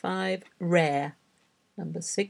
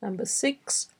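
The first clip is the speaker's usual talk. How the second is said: ordinary talk, nothing marked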